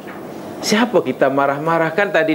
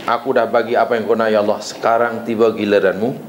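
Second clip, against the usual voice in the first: ordering God; 6 semitones lower than usual. Retold or imitated. A worshipper telling Allah it is His turn, low demanding tone. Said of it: "Menyuruh lain".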